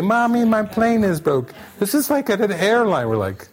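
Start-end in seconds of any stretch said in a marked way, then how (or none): 0.0-1.5 high-pitched imitation of a small child; mock little-kid voice; three-year-old child. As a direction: whine it up high like a toddler telling Mommy. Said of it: "something a three-year-old would say".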